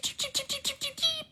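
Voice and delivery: very high, thin chirping that fades to almost nothing; bird chirping. Acted. Guest teasing the table with mock bird chirps. Chirping again after being told off.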